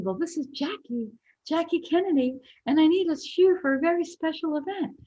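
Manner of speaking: imitating a whispery lady, very high. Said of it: "like, whispery voice".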